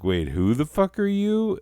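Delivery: high, put-upon squeak of offended innocence; love, indignant. Acted. Love personified answering the lonely heart, high indignant protest. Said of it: "And love's like".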